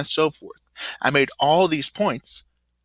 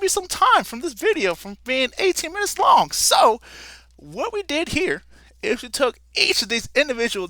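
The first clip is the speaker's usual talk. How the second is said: a lightly put-on Southern frontier accent, pitched higher; frontier drawl; 5 semitones higher than usual. Teacher playing Davey the frontiersman for the class, loose Southern accent. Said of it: "my accent is going all over the place".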